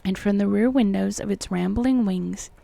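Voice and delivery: measured, formal audiobook reading; deliberate literary narrator delivery; story narration. A narrator's reading. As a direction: read the old tale with careful phrasing. Reads the book aloud.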